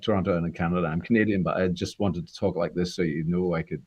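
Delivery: a hint of put-on Scots; kept-up Scots accent. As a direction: confess while holding a light Scots accent. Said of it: "I kept the accent up".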